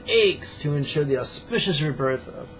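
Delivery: overacted tearful devotion; hammed-up weepy piety. Mocking fake spiritual emotion, hammed-up crying. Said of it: "we're not gonna lie to ourselves and say".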